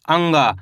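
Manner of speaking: अंगा with nasal ng, falling; letter-sound demo. Shown as a demonstration. Teacher shows how to read it, letter-sound demo. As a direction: say अंगा through an ng, dropping low. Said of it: "इसको अपन कैसे पढ़ेंगे?".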